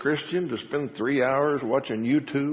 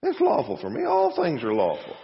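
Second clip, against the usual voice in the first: mock rallying cry; 4 semitones higher than usual. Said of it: "is that the rallying cry of today".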